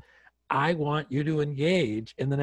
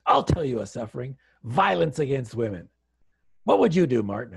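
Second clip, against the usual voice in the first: mildly angry retold challenge; a touch of indignation, firing up on the question; mad; 3 dB louder than usual. Angry woman challenges Martin about women's suffering, mildly mad. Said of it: "was she mad".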